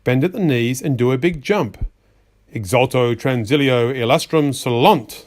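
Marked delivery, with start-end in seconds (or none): 2.5-5.3 solemn spell chant; magic incantation. Acted. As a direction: chant the spell words in a strange, intoned voice. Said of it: "Read the words slowly".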